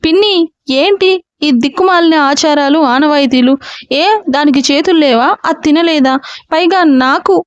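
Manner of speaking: put-on a spoiled boy wheedling his aunt; pampered whine. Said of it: "గారంగా అన్నాడు అగస్త్య".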